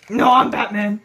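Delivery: a hint of a low superhero; Batman. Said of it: "You're Batman".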